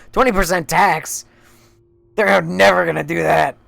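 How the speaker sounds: loud, high outburst of incredulity; loud disbelief. Real, not acted. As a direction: burst out of the reading, scoffing loudly. Breaks off reading in disbelief.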